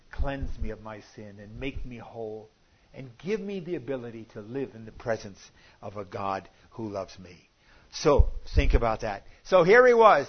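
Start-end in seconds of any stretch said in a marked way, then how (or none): 0.1-7.5 hushed prayer. Acted. A repentant sinner crying out to God, softly. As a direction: pray it low and soft. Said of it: "a broken heart that cries out to God".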